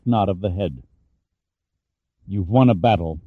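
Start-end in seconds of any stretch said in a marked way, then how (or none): 2.3-3.2 through clenched teeth. Acted. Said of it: "Pitt hissed through clenched teeth".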